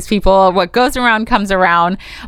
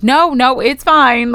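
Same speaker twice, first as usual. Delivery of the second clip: higher, hurried-off reassurance; brushing it off; 6 semitones higher, 3 dB louder, much slower than usual. Retold or imitated. Upset auditioner to apologetic lady, brushing it off. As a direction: wave away the apology in a lifted voice.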